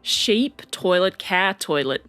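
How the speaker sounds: put-on a light Australian accent on the list; mild Aussie twang, barely shifted; a hint of an Australian accent. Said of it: "Maybe if I say it in an Australian accent".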